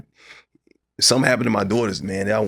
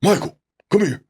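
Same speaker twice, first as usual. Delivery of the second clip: calling from another room; 11 semitones higher than usual. Retold or imitated. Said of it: "it's like".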